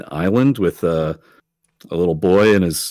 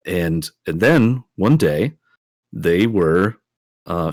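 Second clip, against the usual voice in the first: lightly lilting bedtime-tale delivery; simple, measured children's story; storytelling to a child. Acted. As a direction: tell a little boy an adventure, with pauses between phrases. Player tells the boy a story.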